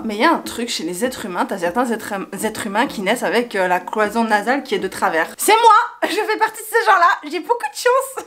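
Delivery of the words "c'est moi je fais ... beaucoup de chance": high, laughing self-mockery. Real, not acted. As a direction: laugh it out, amused at yourself. Laughing at own crooked nose.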